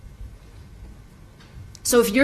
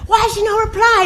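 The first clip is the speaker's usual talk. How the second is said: high, louder puzzled question; imitating the lady; 11 semitones higher, 5 dB louder, faster than usual. Massage lady asking the stranger about the girl, high and puzzled. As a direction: ask the man, baffled. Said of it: "she's like".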